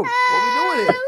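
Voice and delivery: egging the guy on in a retold standoff; mock challenge. To the coworker, a mock challenge. Taunting rival in retold fight.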